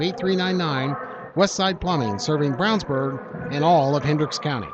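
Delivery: smooth, evenly delivered sponsor read. Acted. Announcer to listeners pitching the plumbing sponsor, ad read. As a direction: read it out like a local radio spot.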